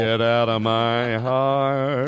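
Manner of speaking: very slow crooning line; drawn-out joke line. Pretend. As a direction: stretch it out dramatically. Joke reply in the bit.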